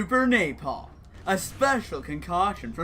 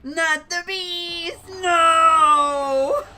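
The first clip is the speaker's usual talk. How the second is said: high, drawn-out cry of alarm; panicked shout; 10 semitones higher, 8 dB louder, much slower than usual. Real, not acted. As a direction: yell it in real panic. In-game panic as the beast appears.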